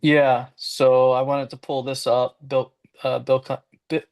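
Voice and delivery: slurring through a numb face; numb mouth. Real, not acted. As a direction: talk with half your face numb. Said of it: "so half my face is, uh, numb right now".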